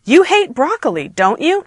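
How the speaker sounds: high statement, then YOU rising; half question. Shown as a demonstration. Teacher reading a tag question, rising on DON'T YOU. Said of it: "a sentence that's half question".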